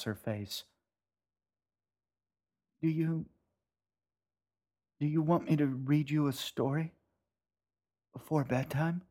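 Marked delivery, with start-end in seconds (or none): 2.8-9.0 higher, hazy mother voice; a lost, uncertain mom; confused mother. Acted. Confused mother offers bedtime story.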